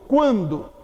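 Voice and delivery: "Quando" with the U sounded as a glide after the Q; U pronounced. Shown as a demonstration. Teacher showing Q U is no digraph, "Quando" with the U sounded. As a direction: say "Quando" as kw, the U heard before A. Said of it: "Porque o U é pronunciado".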